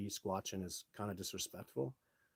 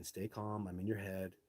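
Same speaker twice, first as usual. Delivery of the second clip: calm inner voice; 4 dB quieter than usual. Pretend. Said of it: "a Sasquatch just saying".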